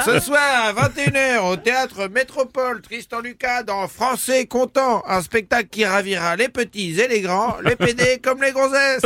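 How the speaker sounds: nineties nasal announcer voice; nasal old-school ad announcer. Pretend. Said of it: "j'ai la voix nasillarde pour les annonces des années quatre-vingt-dix". (voix nasillarde d'annonceur des années 90)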